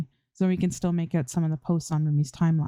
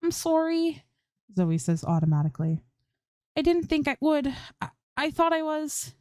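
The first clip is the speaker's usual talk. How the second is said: much higher, flustered apology; apologetic; 10 semitones higher than usual. A narrator's reading. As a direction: stammer out a sheepish sorry. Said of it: "smiles at Rumi apologetically".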